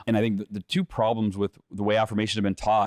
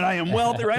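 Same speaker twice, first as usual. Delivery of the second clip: hammed-up affirmation; 8 semitones higher than usual. Shown as a demonstration. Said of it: "Let me hear you affirm it".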